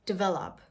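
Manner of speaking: develop as "dih-VEL-up"; small I after the D in develop; correct pronunciation. Shown as a demonstration. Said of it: "A very small I sound".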